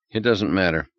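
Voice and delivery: flat, indifferent, the care drained out; sudden flatness. A narrator's reading. Harry brushes off Beth's slip, flat and indifferent. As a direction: shrug it off with total indifference. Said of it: "a sudden flatness in his manner".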